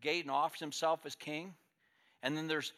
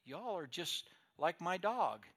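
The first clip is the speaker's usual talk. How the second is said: put-on little boy blurting; 3 semitones higher than usual. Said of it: "blurted out what was on his heart".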